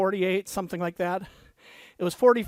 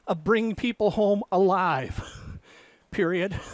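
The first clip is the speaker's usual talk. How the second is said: dictating. Acted. Dictating novel text with punctuation.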